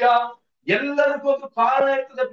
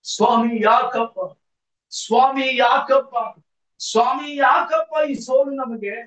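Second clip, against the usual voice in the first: slow, drawn-out plea, building in force; repeated anguished appeal, swelling as it goes; tearful lament. Acted. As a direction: cry out to God in acted grief. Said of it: "ಕಣ್ಣೀರಿಡ್ತಾ ಇದ್ದಾನೆ".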